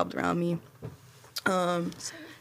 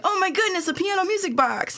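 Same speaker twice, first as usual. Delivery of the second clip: mock excited kid; 11 semitones higher than usual. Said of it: "I'm like".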